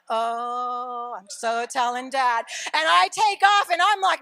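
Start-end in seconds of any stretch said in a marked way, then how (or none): 0.1-2.4 lightly voiced son, drawn-out tattling; slow, mock tattletale son; imitated teenage son. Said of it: "and he's like".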